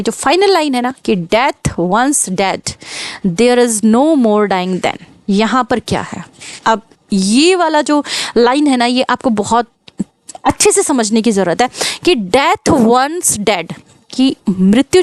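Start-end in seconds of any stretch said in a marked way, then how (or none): 1.3-5.0 reading the poem line very slowly, word by word; slow recitation. Shown as a demonstration. Teacher quotes sonnet line. 12.3-13.7 reading the poem line very slowly, word by word; slow recitation. Shown as a demonstration. Teacher quotes sonnet line.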